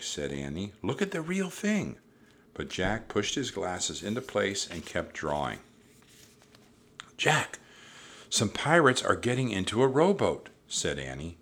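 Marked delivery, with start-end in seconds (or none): 0.8-2.0 high-pitched insistent urging; insistent girl. A narrator's reading. Annie urging Jack to look. 7.2-10.5 high, louder alert; urgent warning. A narrator's reading. Annie warning Jack of pirates.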